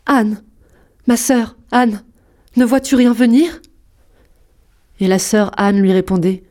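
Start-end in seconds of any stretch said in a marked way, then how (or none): 0.0-3.6 appel un peu plus haut, légèrement inquiet. A narrator's reading. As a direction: lance l'appel vers la tour avec une pointe d'angoisse. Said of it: "lui criait de temps en temps". (l'épouse appelle sa sœur sur la tour, appel légèrement inquiet)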